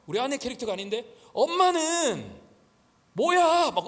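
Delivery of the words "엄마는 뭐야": high, loud mock squabble with mom; hammed-up daughter snapping back on the phone; wife arguing. Pastor imitating his wife quarreling with her mother, high and loud.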